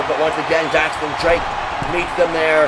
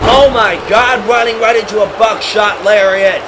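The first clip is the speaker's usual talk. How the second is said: excited; 3 semitones higher, 3 dB louder than usual. Acted. Surprise lariat.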